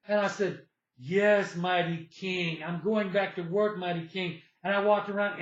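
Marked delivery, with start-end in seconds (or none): 1.0-4.4 drawn-out mock reverence for a king; bow to him sarcastically in your voice; sarcastic obedience. Man bowing to the guy who ordered him to work, sarcastic. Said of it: "just to be sarcastic".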